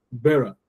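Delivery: "bearer" with the second syllable almost swallowed; first syllable stressed. Shown as a demonstration. Teacher showing correct stress, "bearer" with its last syllable nearly silent. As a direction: stress the start of "bearer", ending barely heard. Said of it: "could almost not hear the ta".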